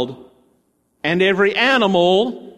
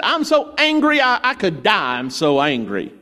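whiny angry Jonah; 3 semitones higher than usual. Retold or imitated. Jonah complains to God about the dead tree, petulant mock wail. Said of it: "Jonah was really upset".

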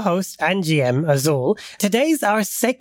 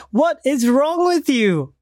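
scream; 8 semitones higher, slower than usual. Shown as a demonstration. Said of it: "getting every other player to scream".

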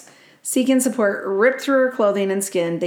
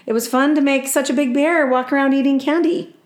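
delighted woman; 6 semitones higher, 3 dB louder than usual. Retold or imitated. Reading the woman's delighted thought.

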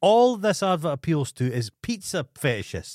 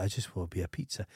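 softer and fast, a hint of a whiny husband; mock pleading; 7 semitones lower, 11 dB quieter, faster than usual. Husband in the pizza ad, lightly voiced and soft. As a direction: mumble it quickly, half-hearted.

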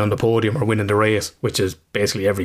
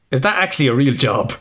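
put-on child asking; 4 semitones higher than usual. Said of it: "he turned around and goes".

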